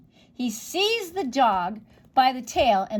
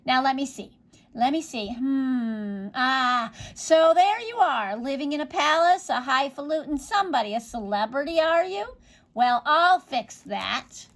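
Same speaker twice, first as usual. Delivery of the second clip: gloating witch; 3 semitones higher than usual. Acted. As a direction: sneer at the celebrity.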